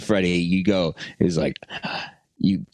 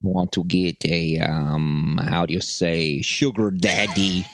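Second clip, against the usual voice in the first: Russian landlady. Retold or imitated. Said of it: "trying to do my, uh, my ex-landlady".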